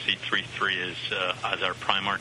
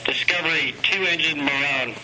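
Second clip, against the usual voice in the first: raised, higher voice for the crew; loud radio call; 5 semitones higher, 5 dB louder than usual. Real, not acted. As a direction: project it over the radio link. Calling the shuttle crew by radio.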